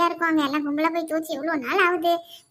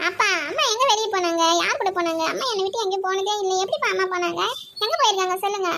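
lightly voiced child, higher pitched; anxious child; 4 semitones higher than usual. Daughter asks father where mother has gone, anxious child voice. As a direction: press Dad with questions like a little kid.

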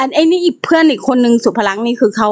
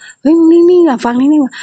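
higher, louder mock rebuke from a friend; friend's mock scolding; 6 semitones higher, 4 dB louder than usual. Friend at seminar telling her to sit still, louder mock rebuke. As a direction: bark it like a pal telling you to sit still.

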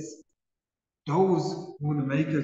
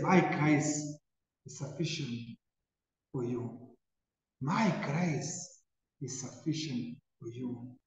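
soft, reassuring words, much softer; tender hush; 4 semitones lower, 7 dB quieter than usual. Retold or imitated. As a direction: comfort them gently, almost in a hush. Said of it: "Jesus comes and cries out".

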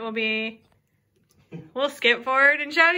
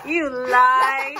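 You lie, louder and laughing; 5 dB louder than usual. Real, not acted. Mom repeats laughing.

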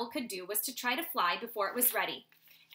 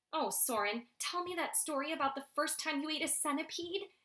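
begging; 5 semitones higher, 3 dB quieter than usual. Acted. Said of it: "Eglantine begged".

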